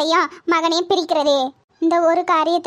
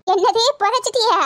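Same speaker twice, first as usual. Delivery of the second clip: sharp high startled question; shocked disbelief; 5 semitones higher than usual. Acted. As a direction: gasp it out in disbelief. Shocked at buried bowl. (அதிர்ச்சியுடன் கேட்பது)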